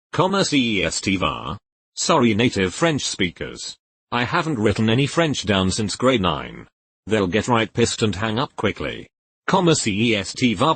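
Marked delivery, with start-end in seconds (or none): 0.1-1.6 "Comment est-il va" read letter by letter as English; mangled anglophone "Comment est-il va", silent letters sounded; brutal French. Shown as a demonstration. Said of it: "answer in real brutal French". 9.5-10.7 "Comment est-il va" with English spelling sounds; butchered French "Comment est-il va", est spelled out; pronounced as spelled. Shown as a demonstration. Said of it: "pronounced exactly as spelled".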